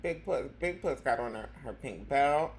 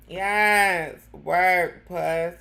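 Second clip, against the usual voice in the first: cheer; 2 semitones higher, 9 dB louder, much slower than usual. Real, not acted.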